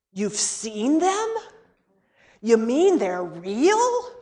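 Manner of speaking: put-on slow, wondering child voice; mild awe of a little boy; amazed child. Child amazed in retold story.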